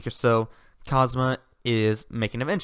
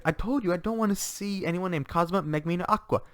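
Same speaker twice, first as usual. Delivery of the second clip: higher, irritated lady's voice; haughty noble lady; 5 semitones higher than usual. Retold or imitated. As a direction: snap it out like a proud noblewoman. Darkness refuses visitors through door.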